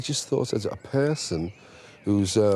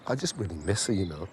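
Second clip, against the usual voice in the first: soft, sad trailing off; sad sigh; 3 semitones lower, 5 dB quieter, faster than usual. Real, not acted. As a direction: let it fall away with grief. Missing his late manager.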